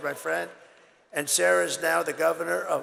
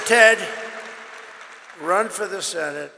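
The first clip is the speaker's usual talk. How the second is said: urging call; 6 dB louder than usual. Retold or imitated. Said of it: "And I said".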